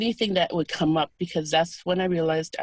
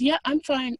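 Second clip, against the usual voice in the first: light, much higher voice for the nun; voicing the old nun; 10 semitones higher than usual. Nun replying to the caregiver, lightly voiced and high. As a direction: play her brushing it off lightly, pitched up.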